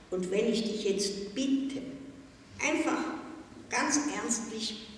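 leiser, ernst und eindringlich; leise Bitte. A narrator's reading. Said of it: "Dann sagte sie leise". (die Direktorin bittet Susi leise und eindringlich)

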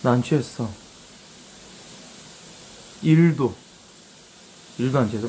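tipsy, slightly slurred speech. Real, not acted. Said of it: "내 취한 걸로 판명됐습니다".

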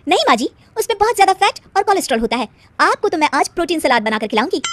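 daughter-in-law correcting her mother-in-law, lightly voiced and preachy; lightly voiced preachy bride. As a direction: play the fitness-obsessed daughter-in-law, bright and certain. Narrator voices the bride Radha.

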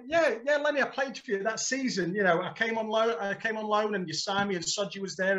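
desperate explaining. Retold or imitated.

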